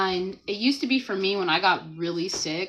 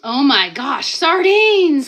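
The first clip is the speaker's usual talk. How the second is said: loud, higher mock-dramatic read; reading Lynn's comment; 6 semitones higher, 13 dB louder, much slower than usual. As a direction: act out the viewer's disgust with flair. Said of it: "says Lynn".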